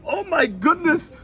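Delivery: high, slow alarmed gasp of words; startled at the man on the floor. Retold or imitated. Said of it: "I was like".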